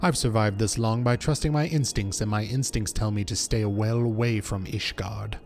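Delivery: dismissive, formal refusal in character; a hint of a world-weary survivor; lightly voiced wary adventurer. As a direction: turn down the recruiter, understated. Reads a reluctant mercenary's dialogue.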